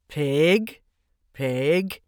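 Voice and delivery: gently coaxing a pig; kind voice. A narrator's reading. Mister Zuckerman coaxing Wilbur home, kind and gentle. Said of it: "said Mister Zuckerman in a kind voice".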